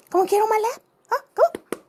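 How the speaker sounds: very high, loud coaxing call to a cat; coaxing pet talk. Real, not acted. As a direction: squeal it up to lure the kitty. Coaxing cat onto lap.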